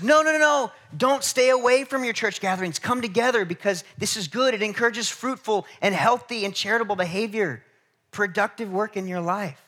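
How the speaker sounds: loud, high insistent plea; mock call-out. Preacher voicing Hebrews to skippers, high loud plea. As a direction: shout the warning to the church skippers.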